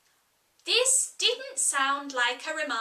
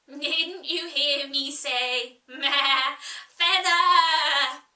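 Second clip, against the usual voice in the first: loud cross cry building to a bellow; Sheep, angrily; 7 dB louder, slower than usual. Acted. Sheep crying angrily at Alice who ignored her. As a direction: scold the rower furiously as an old ewe. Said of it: "the sheep cried angrily".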